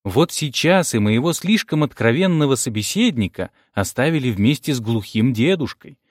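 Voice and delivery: ordinary delivery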